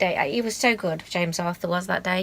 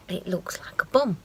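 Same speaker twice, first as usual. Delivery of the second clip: whispered. Real, not acted. Cheeky aside about beer mats.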